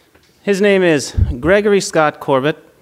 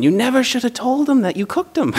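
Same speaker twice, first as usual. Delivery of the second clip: higher voice with laughter in it; girlfriend, laughing; 6 semitones higher than usual. Retold or imitated. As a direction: play the girlfriend scolding through giggles.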